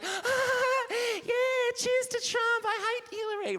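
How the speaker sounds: very high camp squealing voice, mocking the dinner hosts; camp gay men impression. Comic mocking three gay Trump supporters at dinner, high camp squeal. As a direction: ham up a shrill toasting queen. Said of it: "with these three gay men being like".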